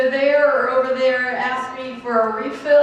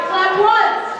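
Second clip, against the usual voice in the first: cheerleader call; 6 semitones higher, slower than usual. Real, not acted. Leading the crowd in claps.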